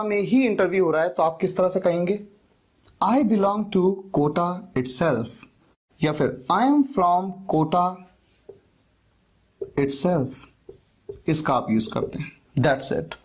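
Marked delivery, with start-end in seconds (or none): 3.0-5.3 slow model sentence. Shown as a demonstration. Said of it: "एक word आप use करते हैं itself". 6.5-10.3 slow model sentence. Shown as a demonstration. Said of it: "एक word आप use करते हैं itself".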